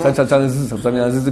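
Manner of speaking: ça ça ça buzzing like a fly. Shown as a demonstration. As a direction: buzz the sound like a fly. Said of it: "comme une mouche". (ça ça ça comme une mouche qui bourdonne)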